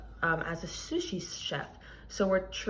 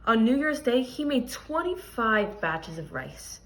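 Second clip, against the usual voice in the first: expressive picture-book reading to a class; reading aloud to children. Acted. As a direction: read the story to the kids, clear and lively. Teacher reads picture book aloud.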